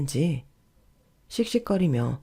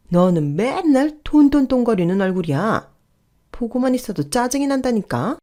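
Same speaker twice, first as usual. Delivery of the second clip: irritated nagging, rising higher in pitch; annoyed scolding; 5 semitones higher than usual. Acted. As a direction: complain at them in mounting annoyance. 어머니가 며느리에게 짜증 냄. (점점 높아지는 짜증 섞인 잔소리)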